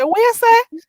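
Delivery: high and loud what you say, patois style. Shown as a demonstration. Teacher demonstrating the patois question.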